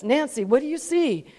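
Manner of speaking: calm, unforced question in God's voice. Retold or imitated. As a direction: ask evenly, without pressing. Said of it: "quite calm at first".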